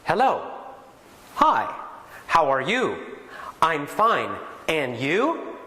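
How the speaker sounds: stiff, carefully pronounced textbook greeting; textbook English. Shown as a demonstration. A teacher shows students the stiff textbook greeting, careful and formal. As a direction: recite it like a first English lesson. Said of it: "their first lessons might be".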